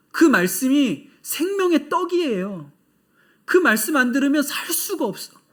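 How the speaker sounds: rural believer voice. Retold or imitated. Voicing rural Chinese believers.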